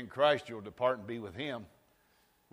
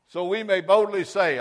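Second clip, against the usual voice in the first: loud preaching; 7 semitones higher, 12 dB louder than usual. Shown as a demonstration. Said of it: "Don't shout me down now".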